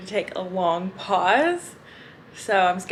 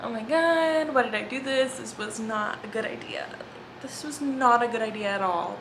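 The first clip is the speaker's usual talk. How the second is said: mock panic; 2 semitones higher than usual. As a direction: lightly act a regretful passenger. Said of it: "him just, like, behind her".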